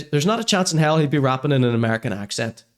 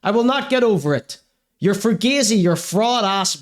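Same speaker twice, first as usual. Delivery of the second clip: high-pitched comic outrage; indignant refusal; 6 semitones higher than usual. Acted. Host refusing to accept a rapper's excuse, indignant. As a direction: rant back, pitched up and affronted. Mock rant at rapper's bio.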